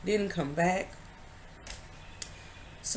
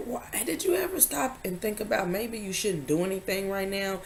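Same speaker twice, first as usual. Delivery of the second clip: whispered and much softer, like calming someone; soft hushed whisper; 2 semitones higher, 7 dB quieter than usual. Retold or imitated. Husband telling her to stop and relax, whispered softly. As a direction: hush it out gently, almost breathless. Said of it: "he said".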